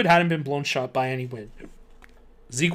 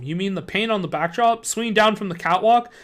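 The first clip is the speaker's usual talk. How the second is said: astonishment; 5 semitones higher, 3 dB louder than usual. Acted. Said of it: "I cried in astonishment".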